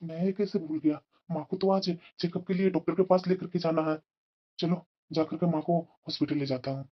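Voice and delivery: soft thinking-aloud aside; talking to himself. Acted. Husband remembering his mother's checkup, quiet self-talk. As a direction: remind yourself under your voice.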